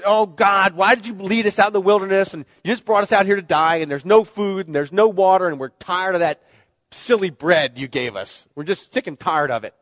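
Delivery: mock whiny Israelites griping to God; hammed-up grumbling at God; whiny complaint.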